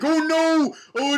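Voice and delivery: hammed-up high yelp of alarm; mock panic. J K Simmons shot at by John Connor, hammed-up alarm. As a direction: cry out in fake panic.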